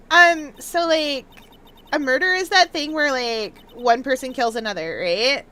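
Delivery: put-on airy Valley Girl upspeak; ditzy Valley Girl explaining; Valley Girl accent. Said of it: "do a Valley Girl accent".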